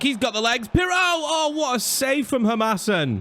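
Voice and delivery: high rising shout as he runs through; excited shout. Real, not acted. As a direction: cheer him on, then gasp at the save. Striker breaking through on goal.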